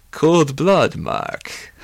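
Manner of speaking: villainous relish; gloating. Acted. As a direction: swoop up, then drop to a hush. Villain relishes Mark's accusation.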